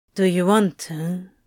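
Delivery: soft and gentle. Narrator reads Crowley's question to Aziraphale: asking gently. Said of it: "Crowley asks gently".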